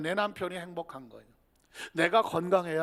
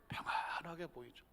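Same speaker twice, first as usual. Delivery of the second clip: whisper; 4 semitones lower, 14 dB quieter than usual. Acted. Whispered answer.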